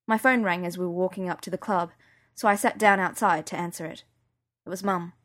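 usual speaking voice

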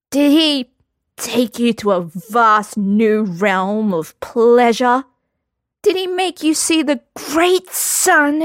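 high, slow overblown love-poem teasing; mock romantic swoon. A narrator's reading. Lambert taunting Geralt in a high, slow mock-romance voice. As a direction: ham it up like purple prose.

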